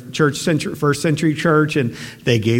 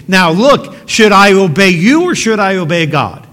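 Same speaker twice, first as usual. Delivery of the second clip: firm, a bit louder, daring them to answer; bold challenge; 2 semitones higher, 5 dB louder than usual. Retold or imitated. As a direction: put it to them boldly, no backing down. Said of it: "he says very boldly".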